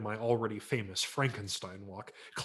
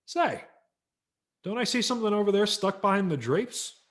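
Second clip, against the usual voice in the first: high, louder coy hint; teasing father; 9 semitones higher, 6 dB louder than usual. Acted. Father hinting at the hidden present, coy and high. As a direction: sing it out like a sly tease.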